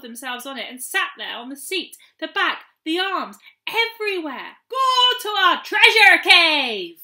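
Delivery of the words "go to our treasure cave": loud, high, slow command; triumphant shout. A narrator's reading. Gnomes commanding the stolen chair, shouting. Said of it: "they shouted".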